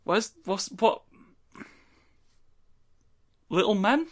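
distant, off-mic voice; far from mic. Real, not acted. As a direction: sound far from the microphone. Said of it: "It sounds like you went really far away".

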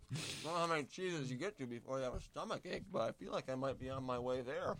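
talking with a mouth full of crackers; chewing while talking. Real, not acted. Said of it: "I'm kind of speaking with my mouth full here".

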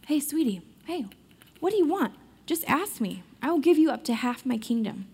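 doting king. Retold or imitated. King urging his queen again to name her wish, sweetly. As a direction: coax her to just ask. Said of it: "the king is like".

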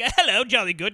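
imitating a British greeting; hammed-up British hello; mock British accent. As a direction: put on a jolly British accent. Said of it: "have his British accent in this".

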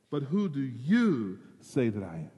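"you" leaned on in "who do you say"; stress on you. Shown as a demonstration. Preacher pressing the disciples with "you". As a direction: press the word "you" home to them. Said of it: "The "you" there is emphatic".

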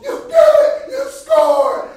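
high, loud celebratory shouting; elated high yell; excited teammate. Retold or imitated. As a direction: cheer a teammate at full volume. Acts out teammate cheering.

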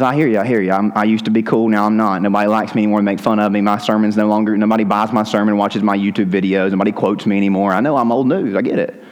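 low, level resigned listing; John's resigned reply. Acted. John admits to his critics he's old news, low resignation. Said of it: "John says".

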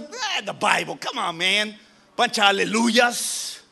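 dismissive. Acted. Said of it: "si tu actitud es".

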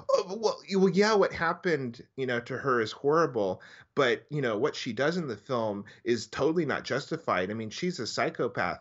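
mock a clueless guy; dumb guy voice. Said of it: "some dumb men would see this movie and go".

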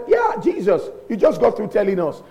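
high-pitched, eager reply; mock agreement. Listeners answering Jesus, mock eager agreement. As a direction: pitch it up as a ready comeback.

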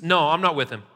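mildly emphatic retold denial. Peter denying Jesus by the fire, emphatic. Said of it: "Very emphatic about it".

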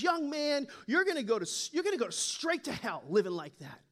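lightly acted frustrated elderly lady; mild mock disgust, an old lady's reprimand; disgusted scolding. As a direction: scold him, starting high and dropping. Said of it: "And in disgust, she looks at him up and down, and she's just kind of frustrated".

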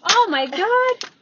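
loud, high, drawn-out outburst; startled exclamation. Real, not acted. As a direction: stretch out a shocked, high yell. Startled outburst, then "That was loud.

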